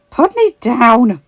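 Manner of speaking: loud, high, slow protest; annoyed huff. A narrator's reading. Arya slung over the Hound's shoulder, annoyed huff. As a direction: huff it out, drawing the words. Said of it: "she huffed, more annoyed than anything".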